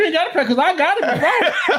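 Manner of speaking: high, laughing mock boast; high playful bragging voice; cocky mimicry. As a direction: play the overconfident believer.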